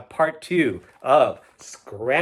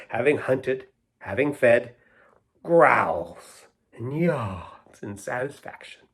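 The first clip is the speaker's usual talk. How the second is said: lilting, rhythmic storybook reading; poem read aloud. Acted. Reader sharing a poetry book with children, sing-song rhythm. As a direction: read the rhymes with a playful bounce. Reads rhyming poem to kids.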